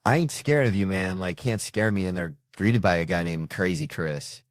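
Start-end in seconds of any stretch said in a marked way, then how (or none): 0.0-2.1 put-on tough-kid swagger, pitched up and loud at first; brash sixth-grader bravado; cocky attitude. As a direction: act a mouthy kid who fears nobody. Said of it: "they show up to this thing with attitude".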